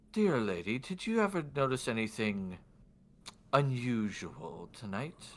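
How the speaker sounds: lightly voiced formal noble, slowing on the last words; a hint of polite, probing lord; lordly man in white. Lord questioning the woman, lightly acted measured voice. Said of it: "do my best for his voice".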